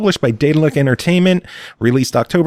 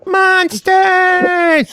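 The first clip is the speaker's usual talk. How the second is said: shout. Real, not acted. Shouted greeting on call.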